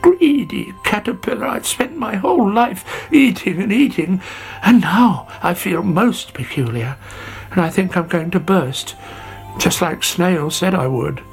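high, woeful caterpillar lament; miserable. Acted. Sammy confesses greed to butterfly, high miserable lament. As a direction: pour out the self-reproach in a high acted whine. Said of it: "cried Sammy".

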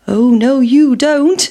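a daring pancake dodging the pan; cheeky defiance. Acted. Pancake defies the farmer's wife.

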